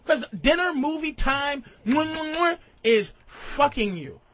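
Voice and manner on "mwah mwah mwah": mock kissing noises. Imitates kissing noises in his list.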